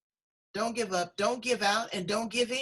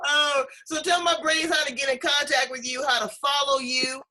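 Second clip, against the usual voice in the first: higher and louder, words breaking with laughter and tears; laughing through tears; 4 semitones higher, 6 dB louder than usual. Real, not acted. Host to guest after his funny nickname, laughing through tears. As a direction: still laughing and near tears as she reads out his contact question.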